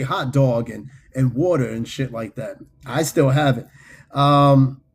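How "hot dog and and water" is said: "dog" and "water" with New York vowels; New York pronunciation. Shown as a demonstration. Native explaining New York talk, "dog" and "water" with aw vowels. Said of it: "we say".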